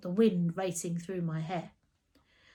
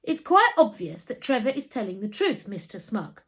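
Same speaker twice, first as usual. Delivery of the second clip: snapping; 4 dB louder than usual. Acted. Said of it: "he snapped".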